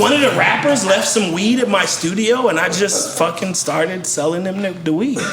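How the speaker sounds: lightly voiced impression of the producer; a hint of his laid-back way of talking; retelling the producer's story in his voice; imitating Doctor Luke. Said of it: "Are you talking in his voice right now?".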